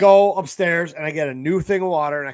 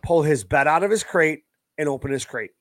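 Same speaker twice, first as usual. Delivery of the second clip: retold yell upstairs; 4 dB louder than usual. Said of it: "I yelled upstairs".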